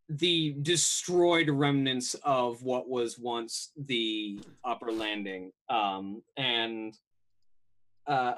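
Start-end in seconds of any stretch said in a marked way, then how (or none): 0.1-5.5 slow, measured game master narration; scene-setting narration. A narrator's reading. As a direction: set the scene slowly for the players.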